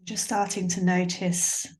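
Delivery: calm, measured meditation voice with long pauses; guided meditation. Acted. Yoga teacher guiding listeners to tune into sounds and body, guided meditation. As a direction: guide a listener gently, leaving space between phrases.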